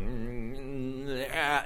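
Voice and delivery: imitating a wordless mumble rising into a grunt; mock the stroke patient's stuck grunting; mumbling and grunting. Stroke patient in the MRI, imitated mumbling grunt. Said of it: "mumbling and grunting and going".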